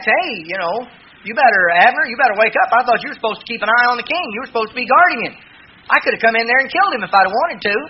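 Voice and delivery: preacher acting David's loud taunt across the valley; calling out loud. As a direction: call out to Abner to wake up, half-shouting. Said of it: "cried out with a loud voice".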